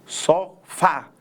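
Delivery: "sofá" by syllables, stressing "fá"; stress on last syllable. Shown as a demonstration. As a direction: split "sofá" in two, landing on the final "fá". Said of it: "qual é a sílaba tônica? A última".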